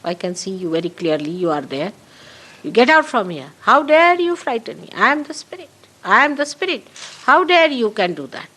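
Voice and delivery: firm rebuke of a frightening spirit; stern command to fear itself; commanding the superego away. Shown as a demonstration. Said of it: "you should just say".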